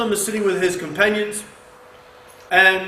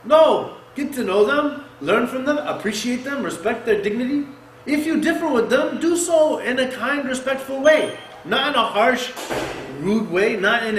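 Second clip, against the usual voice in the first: raised, higher urging; urgent preaching; 5 semitones higher than usual. Real, not acted. Preacher urging the believers to respect others, raised. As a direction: plead firmly with the crowd.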